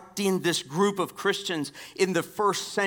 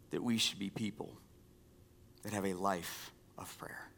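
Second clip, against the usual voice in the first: whispered, softer, like a secret to the church; hushed emphasis; 7 semitones lower, 12 dB quieter than usual. Real, not acted. Pastor whispers the key phrase to his church. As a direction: breathe it out to the congregation.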